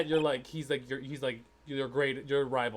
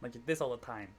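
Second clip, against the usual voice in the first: Brooklyn accent. Shown as a demonstration. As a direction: use as little mouth as possible, Brooklyn style. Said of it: "When you do a Brooklyn accent".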